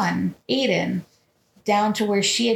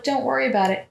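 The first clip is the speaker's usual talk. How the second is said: mock reassuring mother; faster than usual. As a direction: imitate a mother's unconvincing comfort. Imitating mother's reassurance to son.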